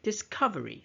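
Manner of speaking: "Discovery" with COV lifted, then falling; "Discovery", punching its second syllable; stress on second syllable. Shown as a demonstration. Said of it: "stress on the word cuff".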